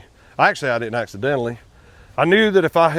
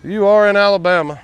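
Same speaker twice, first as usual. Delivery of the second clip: higher, louder know-it-all critic; mocking critic; 6 semitones higher, 4 dB louder than usual. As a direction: needle him like a smug commenter. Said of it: "the rest of you are probably gonna say".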